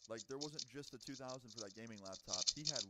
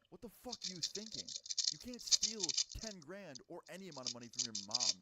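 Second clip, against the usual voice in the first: acted scolding; 4 semitones higher, 6 dB louder than usual. Friend scolds Robert over the theft.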